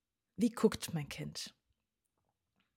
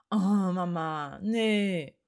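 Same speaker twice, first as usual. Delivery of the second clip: slow, louder whiny protest; annoyed child; 6 dB louder, much slower than usual. Retold or imitated. Child brushing off mom, annoyed and whiny. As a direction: drag out a grumpy child's refusal. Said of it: "der Ton ist anders".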